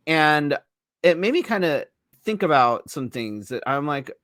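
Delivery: slight lisp, mouth held stiff; talking with a stiff prosthetic face. Real, not acted. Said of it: "That masks you a lisp".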